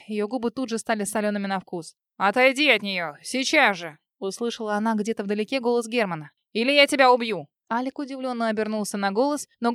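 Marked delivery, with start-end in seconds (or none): 2.2-4.0 shouted command. A narrator's reading. Herman shouting from afar. 6.5-7.5 loud furious threat; threatening shout. A narrator's reading. Rescuer shouting at the attacker, loud threat.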